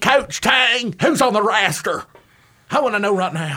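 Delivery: Middle Tennessee accent. Teasing a co-host about the roster question: put-on Middle Tennessee accent. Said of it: "Middle Tennessee".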